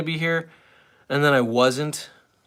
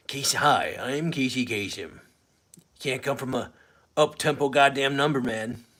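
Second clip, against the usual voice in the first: Casey Kasem. Acted. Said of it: "I was doing my Casey Kasem impression".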